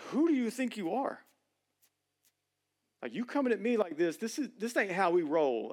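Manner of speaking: a touch of street attitude; Jesus paraphrased as pushing back on his mom; emphatic pushback. Retold or imitated. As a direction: put someone in their place. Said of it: "a more emphatic".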